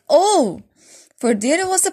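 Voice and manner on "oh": surprised cry. Acted. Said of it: "she cried".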